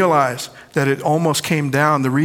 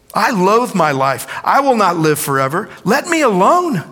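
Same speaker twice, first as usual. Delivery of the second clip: raised, anguished reading; Job's lament; 5 semitones higher than usual. Acted. Preacher voicing Job to the church, raised anguish. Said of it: "He's telling God".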